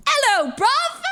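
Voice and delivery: high, loud mock surprise entrance; imitated exuberant greeting. Ellum popping out to surprise her, exuberant greeting. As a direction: burst out with a big cheery hello.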